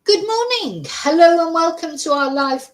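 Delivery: high, loud TV presenter hello; mock anchor greeting. Streamer welcoming viewers, playing a high, loud news anchor. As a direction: open like a breakfast news host.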